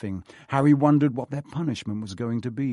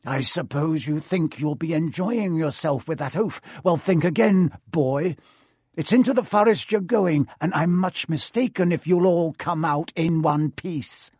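higher, louder sneer building on the threat; gloating caretaker; 4 semitones higher, 4 dB louder than usual. Acted. Filch gloating over Harry's punishment, sneering and high. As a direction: relish scaring the boy.

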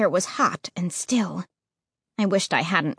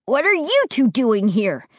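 startled cry; 3 semitones higher, 3 dB louder than usual. Acted. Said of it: "he cried, sounding almost as startled".

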